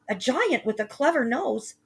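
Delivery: "clever nose" in Jack's frightened high voice; scared boy. Acted. Jack telling mother of giant.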